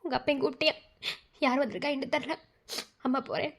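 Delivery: soft, subdued murmur; hushed aside. Acted. Mother speaks low to daughter after being called, hushed. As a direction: keep it down, just for the daughter.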